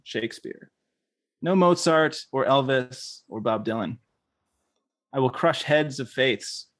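earnest, measured poetry reading; poem reading. Acted. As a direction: read it like a grand manifesto poem. Reads a poem aloud.

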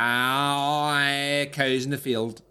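drawn-out mock rural Irish accent; mimicked guest accent. Shown as a demonstration. Host attempting guest's accent, exaggerated slow vowels. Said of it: "I can do your accent".

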